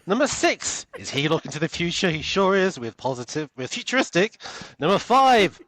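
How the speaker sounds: loud, high hyped radio countdown host; big excited DJ countdown, punch each number; American countdown. Pretend. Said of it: "now I kinda wanna hear your American countdown".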